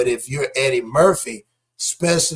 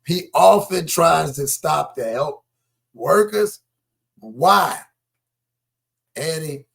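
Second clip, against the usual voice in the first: loud, higher-pitched disbelief, words drawn out; incredulous outburst; 3 semitones higher, 7 dB louder, much slower than usual. Real, not acted. Host reacting to Eddie often stopping to help workers, loudly incredulous. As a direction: stop everything with a loud, astonished objection.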